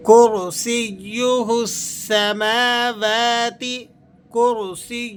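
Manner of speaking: کرسی with a full heavy ra; slow کرسیہ. Shown as a demonstration. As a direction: round and thicken the ra of کرسی. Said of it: "را کو آپ نے پر کر کے ادا کرنا ہے".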